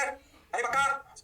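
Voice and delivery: high, drawn-out playful disbelief; hammed-up really?; mock surprise. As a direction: tease like an amazed student. Mock student exclaiming in disbelief.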